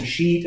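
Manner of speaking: SHEET drawn out carefully; emphasize SHEET so it cannot be misheard; stress on SHEET. Real, not acted. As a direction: say "sheet" with a clear, long ee. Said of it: "I emphasize sheet".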